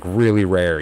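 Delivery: put-on the boy half-copying his dad's order; imitating dad's order. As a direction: say it like the old man would, half-way. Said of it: "didn't say it exactly like my dad".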